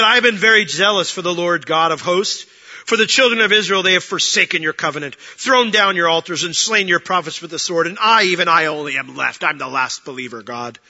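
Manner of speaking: mock-earnest complaint, forceful at first then sinking; pity party. Elijah complaining to God as the last believer, self-pitying. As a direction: plead your case loudly, then deflate. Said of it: "Elijah pulls out his pity party".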